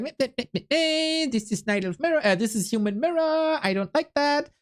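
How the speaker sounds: high mocking whine of a grumpy viewer; whiny complainer voice. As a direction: mimic a sulky naysayer, nasal-free and high. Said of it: "negative Nancys are coming in like".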